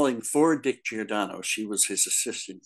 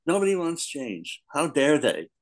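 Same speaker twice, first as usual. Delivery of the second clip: mock indignation; 5 semitones higher than usual. Mocks readers who resent change.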